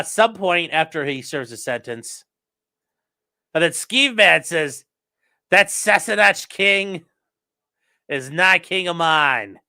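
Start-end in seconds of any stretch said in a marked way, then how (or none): 5.5-9.6 put-on Scottish accent. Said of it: "We need to work on your Scottish accent there".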